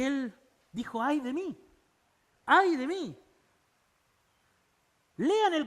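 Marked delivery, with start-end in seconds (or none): 1.0-3.2 rising anguished cry of woe; Isaiah's lament. Retold or imitated. Preacher voicing Isaiah, crying out in anguish. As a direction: cry out your own ruin.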